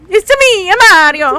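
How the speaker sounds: chirpy video game plumber greeting, lightly voiced; Mario impression. Hosts joking about accents, a light Mario impression. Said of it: "His accents usually turn into Mario".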